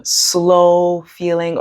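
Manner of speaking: long, drawn-out "slow"; sluggish slow. Shown as a demonstration. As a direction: drag the word out sluggishly. Describing a sluggish mental state.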